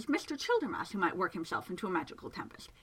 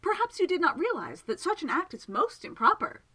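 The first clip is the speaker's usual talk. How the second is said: louder and higher, calling across the pond; 6 semitones higher, 4 dB louder than usual. A narrator's reading. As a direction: project the voice toward the water. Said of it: "he called out towards it".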